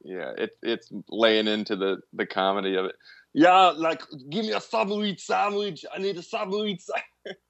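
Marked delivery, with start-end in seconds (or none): 3.3-7.4 put-on higher Austrian accent as Arnold; hammed-up Austrian Arnold accent; Arnold impression. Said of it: "you're doing an Arnold impression".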